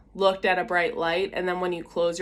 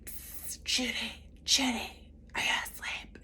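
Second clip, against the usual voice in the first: hushed stage whisper; retold night-time whisper; 4 semitones higher, 10 dB quieter than usual. Whispering to best friend in sleeping bags on gym floor. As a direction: whisper to wake a friend without waking others.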